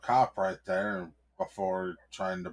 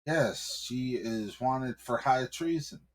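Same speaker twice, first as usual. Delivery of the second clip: an officious cop, pitch raised; nervous cop; 5 semitones higher than usual. Acted. Cop explaining to the husband, pitched high and officious.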